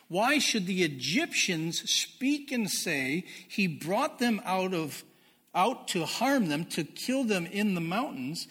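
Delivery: loud, slow pleading read; scripture reading. Acted. Preacher voicing Moses pleading with the Lord, loud slow scripture read. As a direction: plead with God on behalf of the people.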